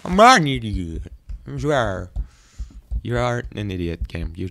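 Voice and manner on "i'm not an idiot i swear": game's voice. Acted. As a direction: speak as the game itself. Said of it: "you're making this voice".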